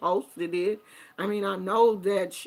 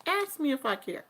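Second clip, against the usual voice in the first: softer, quicker dismissive dare; a quicker, quieter shrug of a dare; defiant; 4 semitones higher, 6 dB quieter than usual. Real, not acted. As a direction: toss it off, not caring. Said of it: "Do you wanna ask me?".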